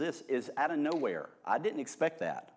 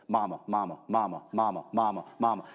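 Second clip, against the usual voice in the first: a lightly voiced child calling over and over; a hint of a nagging kid repeating mama; 4 semitones lower, faster than usual. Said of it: "it sounds like this".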